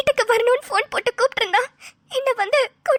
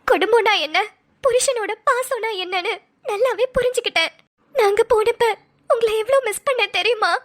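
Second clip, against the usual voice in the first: acted tearful pleading; 2 semitones higher than usual. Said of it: "நீ நடிச்சுதான் ஆகணும் போல".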